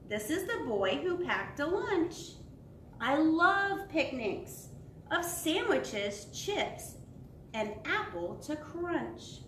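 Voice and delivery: slow, lilting picture-book narration; sing-song storybook reading; reading to children. Acted. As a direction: read it to little ones, savouring each phrase.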